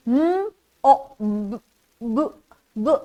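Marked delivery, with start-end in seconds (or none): 0.1-1.6 m o b drawn out slowly, one sound at a time; sounding out letters. Shown as a demonstration.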